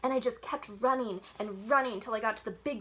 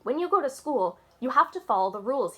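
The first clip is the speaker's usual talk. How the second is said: grumpy principal; 4 semitones higher, 7 dB louder than usual. A narrator's reading. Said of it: "Principal acted a little bit grumpy".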